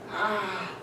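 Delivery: high-pitched, soft "ah" imitating a yell; mild mock yell. Imitating a frustrated player at the club, mild mock yell. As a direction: imitate someone yelling without the volume. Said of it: "one person would be yelling".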